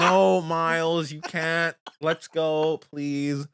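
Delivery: slow, drawn-out parental no; firm mom. Retold or imitated. Mom refusing her son Miles, slow and firm. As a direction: lay it down slowly and firmly. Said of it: "I'm just like".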